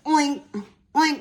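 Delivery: oink oink. Shown as a demonstration. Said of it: "What is the sound of a pig".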